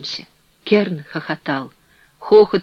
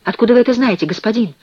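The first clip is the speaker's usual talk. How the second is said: higher, louder agitated question; 6 semitones higher, 3 dB louder, faster than usual. A narrator's reading. Prisoner presses a stranger in the dark, agitated. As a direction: press the stranger anxiously for an answer. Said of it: "спросил взволнованный голос в темноте".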